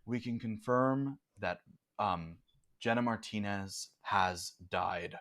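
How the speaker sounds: solemn lawman reading a prepared statement; sheriff statement. Acted. Sheriff Dan addresses press, lightly voiced lawman.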